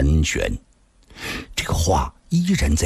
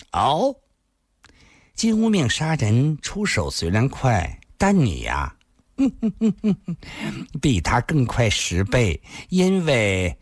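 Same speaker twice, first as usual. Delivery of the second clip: lightly voiced admiring woman, giggling; coquettish flatterer; 4 semitones higher than usual. Woman flatters the victor who never had to strike, coquettish.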